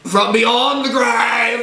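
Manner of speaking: spooky shout. Pretend. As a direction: boom it out like a ghost host. Spooky seance announcement.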